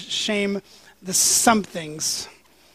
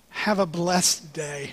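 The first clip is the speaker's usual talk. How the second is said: mock caller's blessing; 2 semitones lower, 5 dB quieter, slower than usual. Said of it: "this was her words".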